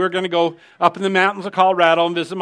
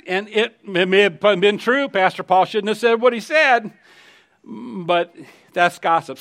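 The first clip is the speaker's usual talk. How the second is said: usual speaking voice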